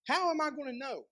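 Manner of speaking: mild acted doubt at normal volume; understated questioning of a promise; doubtful question. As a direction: ask it doubtfully, without raising the volume. Zechariah's doubt, first take.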